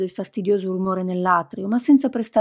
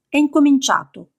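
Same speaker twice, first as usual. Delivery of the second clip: theatrical announcement; 6 semitones higher, 5 dB louder than usual. Acted. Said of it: "con un gesto teatrale".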